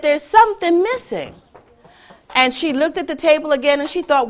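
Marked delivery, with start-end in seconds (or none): 0.0-1.3 little chick. Acted. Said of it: "the little chick said".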